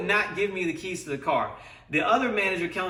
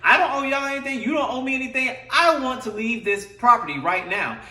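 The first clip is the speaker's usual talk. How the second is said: angry demand; 6 semitones higher than usual. Retold or imitated. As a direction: insist forcefully, indignant.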